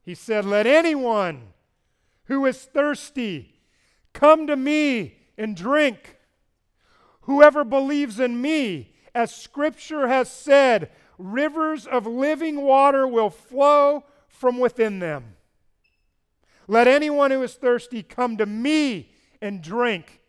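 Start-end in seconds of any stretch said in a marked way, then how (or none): 0.4-15.3 slow, raised proclamation of scripture; loud voice. Retold or imitated. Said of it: "A loud voice". 16.7-20.2 raised proclamation, mildly shouted; loud voice. Retold or imitated. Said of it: "Jesus shouted in a loud voice".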